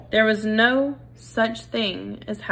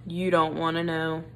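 deep and slow; 4 semitones lower, 3 dB quieter than usual. Acted. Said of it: "His voice was deep and slow".

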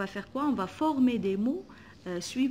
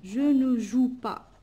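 slow and louder, "ne" clearly marked; teacher modelling the negative for the class; stressed negative; 7 dB louder, slower than usual. Shown as a demonstration. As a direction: hit "ne" and "pas" slowly. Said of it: "négatif".

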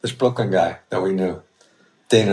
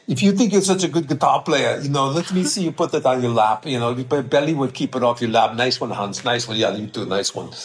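put-on Hans and Franz accent; 3 semitones higher than usual. Bodybuilder taunts guitar player, congratulates Hans, Austrian accent. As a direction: trade smug insults in a mild Austrian accent.

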